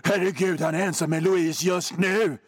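a hint of a grim TV detective; mock crime drama line. Host parodying dreary crime series dialogue, lightly mock grave. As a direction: deliver it like a gloomy police series cliché.

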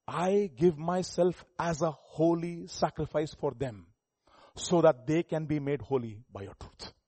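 slow, measured preaching; deliberate, weighty recitation; solemn scripture quotation. Acted. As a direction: draw out each phrase of the verse.

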